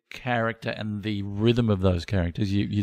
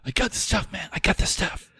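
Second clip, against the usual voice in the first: lightly voiced stoner, higher; 7 semitones higher, 4 dB quieter than usual. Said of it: "The stoner voice is an easy one to do".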